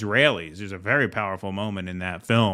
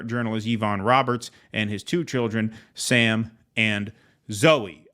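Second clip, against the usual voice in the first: measured obituary read from a written report; news article read-aloud; 2 semitones higher than usual. Real, not acted. Host reads journalist's obituary to listeners, news-reading voice. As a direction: read it out evenly like a news item.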